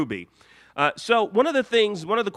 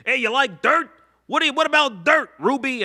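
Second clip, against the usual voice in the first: higher and louder, teasing, slightly fast; mock Lapis voice; 7 semitones higher, 4 dB louder than usual. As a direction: Lapis egging Ruby on about dirt. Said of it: "she said".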